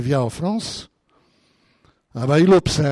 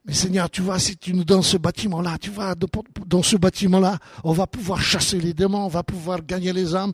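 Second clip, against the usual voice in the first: pleading that climbs steadily higher; re-enacted earnest prayer; 3 semitones higher than usual. Pastor retelling his prayer to God for a building, pleading. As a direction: build the imagined plea item by item, rising.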